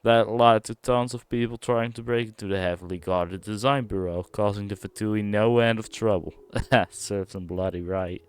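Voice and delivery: a hint of a put-on accent, earnest warning; voicing the NPC. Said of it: "I don't know why I'm doing these accents".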